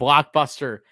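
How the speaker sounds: blockbuster said with sarcastic, mocking emphasis. Speaker tells Rory about a traded player, sarcastic stress on blockbuster. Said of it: "Emphasizing the sarcasm on blockbuster".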